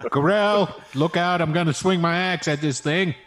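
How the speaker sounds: John F. Kennedy. Acted. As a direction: call out a battle warning in a hammed-up Kennedy accent. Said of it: "sounding more and more like a John F. Kennedy impression".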